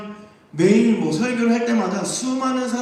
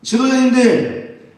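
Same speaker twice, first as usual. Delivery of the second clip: tattling accuser; 3 dB louder than usual. Acted. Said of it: "가서 고발합니다".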